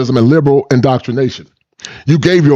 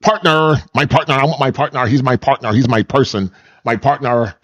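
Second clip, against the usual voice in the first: "partner" stressed each time, imitating their self-importance; mocking emphasis. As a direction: repeat "partner" with pointed weight. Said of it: "They gotta add emphasis to it".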